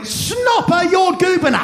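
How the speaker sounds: high, shouted fake-Swedish gibberish; hammed-up Swedish accent; mock Swedish host. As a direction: bark nonsense Swedish words up high. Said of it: "pointed to me and went".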